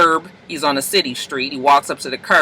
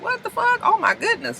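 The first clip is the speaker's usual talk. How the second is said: shocked gasp; 6 dB quieter than usual. Retold or imitated. People shocked at the rude rap.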